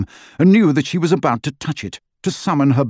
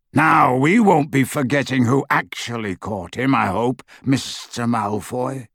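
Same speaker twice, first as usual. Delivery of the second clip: menacing. Acted. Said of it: "said Greyback menacingly".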